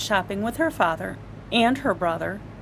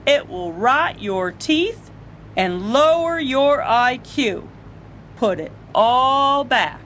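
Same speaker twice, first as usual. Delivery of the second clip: scolding father; 2 semitones higher than usual. Acted.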